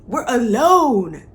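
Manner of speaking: high, slow mock shock; mock scandalized. Penelope alone in the carriage, slow mock scandal. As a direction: gasp it like a blushing debutante.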